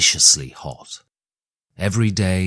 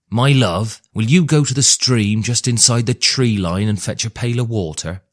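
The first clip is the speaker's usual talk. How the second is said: calling out; 3 semitones higher, 5 dB louder than usual. Acted. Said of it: "and called to Joy".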